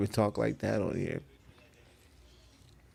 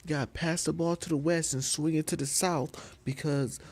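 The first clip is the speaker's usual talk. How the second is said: high-pitched pleading player; exasperated, high mock player's voice; mock basketball teammate; 8 semitones higher than usual. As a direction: whine at your teammates on the court. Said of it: "somebody be like".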